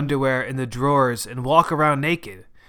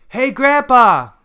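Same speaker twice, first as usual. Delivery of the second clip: high, loud, drawn-out greeting shout; calling out; 10 semitones higher, 7 dB louder, slower than usual. A narrator's reading. Grandson waving to his grandfather, calling out loudly. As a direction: shout hello across a distance. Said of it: "I'd wave to him and shout".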